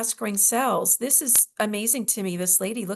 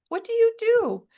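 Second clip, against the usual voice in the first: much higher, louder astonished question; retold surprise; 13 semitones higher, 5 dB louder than usual. At dinner, astonished to learn what he does. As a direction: ask it in sudden amazement. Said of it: "I was like".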